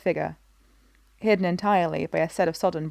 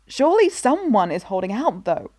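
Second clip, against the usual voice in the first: exclaiming; 3 semitones higher, 3 dB louder than usual. Acted. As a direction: burst out with it. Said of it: "she exclaims".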